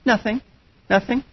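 clipped quiet denial from a hurt spouse; sulky "nothing". Retold or imitated. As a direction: brush it off softly, as if it's fine. Sulking spouse denies being upset.

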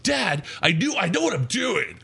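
a hint of a smartass kid; sassy kid. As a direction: talk back like a know-it-all little boy. Kid answers back from field.

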